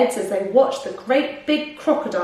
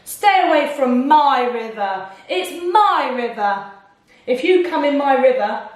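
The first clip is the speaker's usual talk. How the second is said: louder crocodile shouting stay away; mock shout; 4 semitones higher, 3 dB louder than usual. Crocodile shouting at the forest creatures, loud. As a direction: bellow like a grumpy crocodile. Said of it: "he shouted to the creatures".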